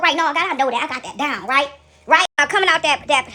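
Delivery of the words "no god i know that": pig-headed dismissal. Retold or imitated. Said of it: "not be so pig-headed myself".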